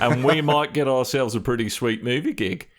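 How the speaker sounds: mock Australian accent; hammed-up Australian. Podcaster joking about bad screen accents, hammed-up Australian. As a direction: put on a jokey Aussie accent. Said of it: "do the rest of the show in Australian".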